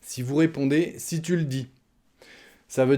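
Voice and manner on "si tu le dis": skeptical reply. Pretend. Reply to wife demonstrated.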